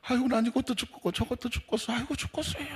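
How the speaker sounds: high, soft mock whining; woeful complaint. Member complaining to the pastor, woeful complaint. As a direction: imitate someone moaning about everything.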